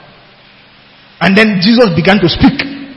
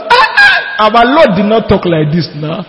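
mock disbelief. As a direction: scoff at the fake Jesus voice. Mocking Nollywood Jesus.

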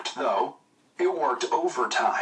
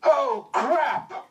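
mock yell; 10 semitones higher than usual. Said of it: "he yells".

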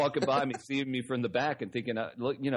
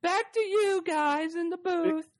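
high, slow, laughing reporter voice; sideline reporter sign-off; slower than usual. Pretend.

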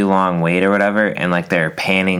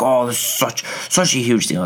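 mock whiny complainer; 5 semitones higher than usual. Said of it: "people are like".

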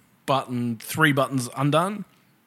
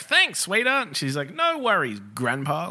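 put-on old man exchange; 3 semitones higher than usual. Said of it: "You're like".

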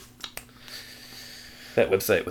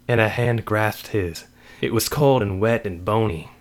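measured, dramatic story reading; story narration; 4 semitones higher, 5 dB louder, slower than usual. A narrator's reading. Author reads a spooky story to a friend, measured narration. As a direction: read a dark tale aloud deliberately.

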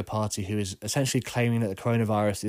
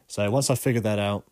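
stuffy, bunged-up voice; blocked nose. Real, not acted. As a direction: talk through a blocked nose. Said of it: "I'm a little bit bunged up today".

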